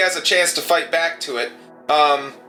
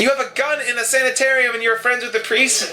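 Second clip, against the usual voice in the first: lightly voiced disbelieving nurse, higher pitch; incredulous nurse; 4 semitones higher than usual. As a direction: question them in mild disbelief. Nurse challenges armed player character.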